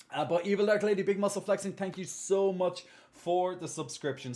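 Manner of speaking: beam at the subscriber; cheery thanks. Real, not acted. Thanking Evil Dark Lady for her subscription, cheery and high.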